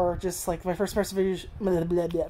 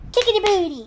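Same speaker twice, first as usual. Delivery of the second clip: much higher and louder squeal at the dog; squeaky pet talk; 13 semitones higher, 8 dB louder than usual. Real, not acted. Teasing the dog.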